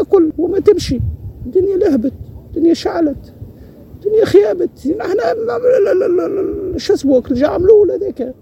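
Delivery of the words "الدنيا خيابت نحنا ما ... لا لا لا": real grief spilling over; crying out in despair; breaking into tears. Real, not acted. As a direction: voice cracking into a sob. Old man laments hard life.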